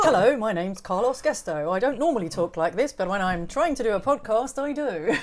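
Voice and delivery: lightly put-on presenter voice; podcast presenter. Teasing the co-host about the podcast voice, mock presenter. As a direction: imitate a presenter, hint of amusement. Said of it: "You sound almost like a presenter".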